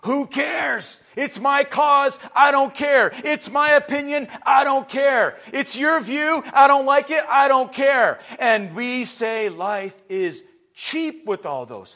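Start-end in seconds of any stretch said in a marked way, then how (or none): 0.0-8.2 mock careless protester, louder, clipped shouts; preacher mimicking a defiant protester; dismissive protest voice. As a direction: sneer like someone who cares for nothing. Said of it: "It said".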